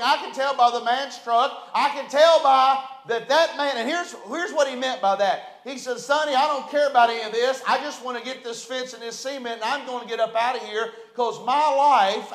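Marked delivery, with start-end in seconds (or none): 6.0-12.3 lightly imitated mountain hillbilly, quick then slowing. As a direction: play the hillbilly brushing it all off. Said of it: "In his hillbilly mountain voice".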